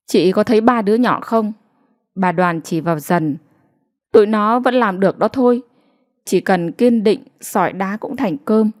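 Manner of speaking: a hint of a firm, encouraging official; lightly voiced firm official. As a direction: push her to be strong. Official challenges the mother.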